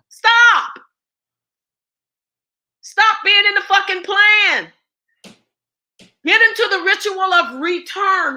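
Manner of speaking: loud, high shout of stop; shouted command. Real, not acted. Activist shouting at listeners to leave the plan. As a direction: order them to stop, full force.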